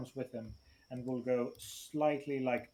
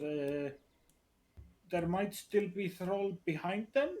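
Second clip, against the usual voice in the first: mildly distressed, higher questioning voice; distressed, unsure; 5 semitones higher than usual. Acted. Reuven warning the teacher of a troll, distressed and unsure. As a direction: voice rises uncertainly into the question. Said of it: "in his voice that he's distressed".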